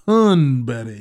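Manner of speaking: deep, dug-in posh English accent; deep aristocratic accent. Shown as a demonstration. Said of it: "You gotta go deep, dig deep, and say it".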